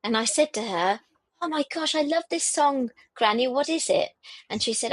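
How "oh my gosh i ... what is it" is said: higher-pitched retold excitement; delighted child, lightly voiced. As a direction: lightly act a child asking Granny eagerly. Voices her younger self to granny.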